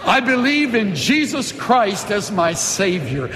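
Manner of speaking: "I believe in Jesus Christ as my Savior" said again, just as earnest; sincere confession. Shown as a demonstration. Pastor repeating the confession with the church, sincere. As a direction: repeat it with full conviction. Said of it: "Say that".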